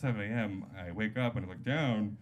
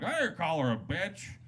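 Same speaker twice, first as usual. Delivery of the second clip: put-on raised-pitch drunk's denial; protesting denial; 4 semitones higher than usual. Hammered guy answering the host, protesting. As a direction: deny it as the offended party. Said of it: "He's like".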